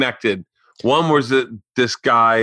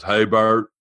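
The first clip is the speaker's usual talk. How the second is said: lightly voiced low-key caller; a hint of the friend's lower, casual voice; Derek; 4 semitones lower than usual. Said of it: "I did his voice".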